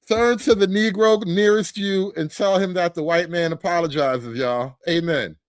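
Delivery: lightly voiced church preacher; a hint of pulpit delivery. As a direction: address the congregation like a pastor. Mimics church preacher's call.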